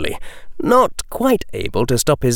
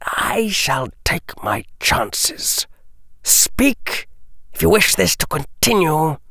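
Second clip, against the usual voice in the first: cold, unsmiling murmur; a lord whispering his terms; humorless near-whisper; 7 semitones higher than usual. Acted. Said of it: "Another humorless smile".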